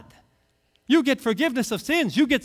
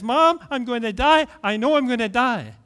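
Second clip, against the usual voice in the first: put-on mildly panicked child, slightly raised pitch; panicked little boy; 3 semitones higher, 3 dB louder than usual. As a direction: act out a small boy's alarm. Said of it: "He's in a panic".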